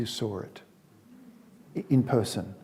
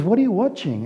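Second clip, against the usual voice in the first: higher, bright curious question; eager dad; 8 semitones higher, 3 dB louder, faster than usual. Acted. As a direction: lean in, hopeful.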